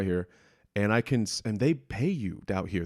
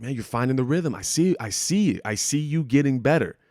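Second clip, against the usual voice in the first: raised, eager voice imitating a happy fan; excited encouragement; 4 semitones higher, 3 dB louder than usual. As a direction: sound genuinely thrilled for him. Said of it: "he was so excited".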